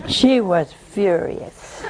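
slow, laughing through the words; amused disbelief with a laugh. Real, not acted. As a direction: chuckle as you say it. Laughing at the widow's anger.

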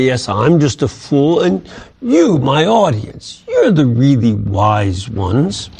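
a touch of sarcasm, mock modesty; mock humble sarcasm. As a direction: play the humble fool who flatters them slyly. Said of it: "But there is this tone of sarcasm".

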